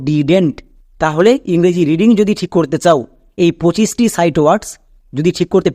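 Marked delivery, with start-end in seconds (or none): 0.1-0.6 "didn't" said together as one word; joined contraction. Shown as a demonstration. Teacher repeating the combined form, "didn't" in one piece. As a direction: pronounce "didn't" joined, as did-ent. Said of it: "একে আমরা একসঙ্গে উচ্চারণ করব".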